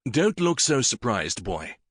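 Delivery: lightly voiced king, gentle; king reassures the startled boy; a hint of a kindly king.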